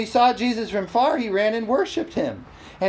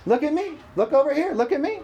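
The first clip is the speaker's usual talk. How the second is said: mild mock calling, higher pitch; attention-seeking cry; 6 semitones higher than usual. Devil distracts listeners, mild mock calling. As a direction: pester lightly in a raised pitch. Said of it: "cried with a loud voice".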